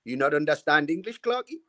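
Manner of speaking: mock foreign manager, puzzled question; Ossie Ardiles. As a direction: lightly imitate a non-native speaker, rising at the end. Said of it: "he looked at me and says".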